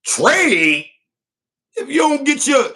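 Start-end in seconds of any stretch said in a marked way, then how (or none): 0.0-0.9 a light take on a rapper saying "Trade?", drawn out. Retold or imitated. Vlogger lightly imitating a rapper to his viewers, "Trade?" drawn out. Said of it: "In my rapper's voice".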